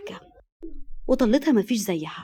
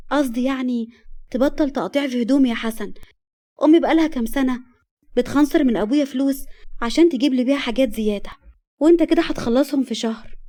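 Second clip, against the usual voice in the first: higher, louder mock-indignant wife; wife complaining; 4 semitones higher, 4 dB louder than usual. Wife scolds husband for tearing her clothes, indignant. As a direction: nag him, building as you go.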